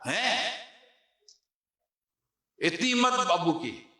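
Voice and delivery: high, slow outraged gasp of disbelief; shocked disbelief. Retold or imitated. Middle son hearing the story, shocked disbelief. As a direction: cannot believe his father did it.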